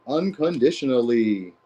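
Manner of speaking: Unconditionally drawn out slowly, every syllable weighted; slow emphatic repeat. Real, not acted. Reader repeats Unconditionally to viewers, slow and deliberate.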